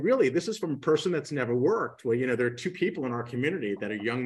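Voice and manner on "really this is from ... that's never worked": laughing, high and loud; chuckling. Retold or imitated. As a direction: scoff through a chuckle. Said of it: "chuckling and going".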